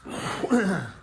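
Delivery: coughing. Real, not acted. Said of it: "clear my lungs".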